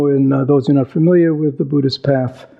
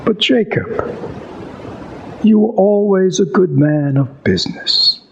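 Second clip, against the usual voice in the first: pleading Scrooge; 5 semitones higher than usual. Retold or imitated. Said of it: "Scrooge says".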